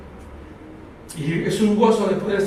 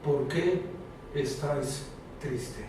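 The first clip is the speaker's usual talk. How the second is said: soft question from Jesus; 7 semitones lower, 12 dB quieter, slower than usual. Acted. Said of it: "Jesús te pregunta".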